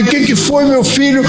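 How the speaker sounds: a mother rushing to ask what happened; worried mother. Retold or imitated. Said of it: "e a mãe".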